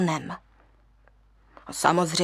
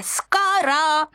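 boasting monkeys; 5 semitones higher than usual. Acted. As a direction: brag about your jumping.

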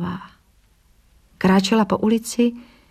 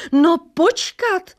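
a high, louder, slow no počkat; roared protest; 10 semitones higher, 4 dB louder, slower than usual. Acted. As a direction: bellow it across the crowd. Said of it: "zařval někdo".

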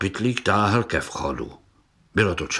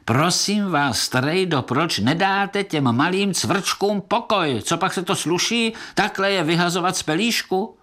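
higher, reproachful telling-off; indignant scolding; 9 semitones higher than usual. Acted. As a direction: shame him for hurting the little ones. Indignant beetles scold Pytlík. (rozhořčení broučci kárají pytlíka)

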